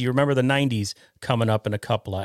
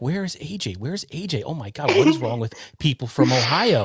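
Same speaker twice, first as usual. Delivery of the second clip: retold mock panic, pitch climbing; freaking out; 3 semitones higher than usual. Host retelling his wait for his late guest, freaking out. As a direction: fret aloud in mild exasperation, building to a rush. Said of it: "I was sitting here freaking out".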